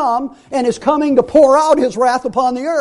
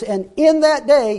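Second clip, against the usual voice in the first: slow phrase, pitched up, weight on "in"; "in" stressed deliberately, unhurried and raised; 4 semitones higher than usual. Shown as a demonstration. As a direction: draw it out higher and land on "in". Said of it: "I emphasize the word in".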